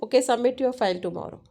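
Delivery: fast, offhand okay; a quick, easygoing reminder; casual reminder. Shown as a demonstration. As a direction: toss it off lightly. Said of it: "All are different".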